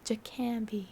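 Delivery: Jakambi, opening on "juh"; demonstrated pronunciation. Shown as a demonstration. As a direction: say Jakambi with Ja as first syllable. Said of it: "I've been saying Ja".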